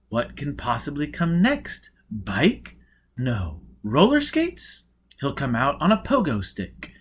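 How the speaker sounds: eager spectator chatter, pitch jumping high on roller skates; wide-eyed crowd guessing aloud; a gawking spectator calling out wild guesses; excited guessing. Acted. Spectators guessing what comes next.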